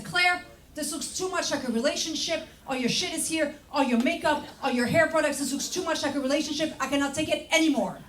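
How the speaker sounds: high, whiny mock boyfriend rant; mock freaked-out boyfriend. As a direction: whine like a cornered boyfriend. Boyfriend flipping out.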